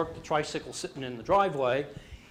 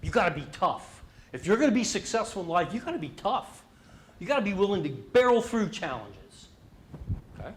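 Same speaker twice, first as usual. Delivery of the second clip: tough dad; 5 semitones higher, 3 dB louder than usual. Retold or imitated.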